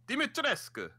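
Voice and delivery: high-pitched vampire accent on "Dimitrescu". Shown as a demonstration. Cohost trying out the villain's name, high vampire accent. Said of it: "like, vampire accent".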